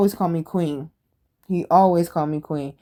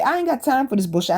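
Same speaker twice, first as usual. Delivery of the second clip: mildly fed-up, fast and higher; retold snapping; 6 semitones higher, faster than usual. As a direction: act out losing patience, without shouting. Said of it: "then I end up snapping".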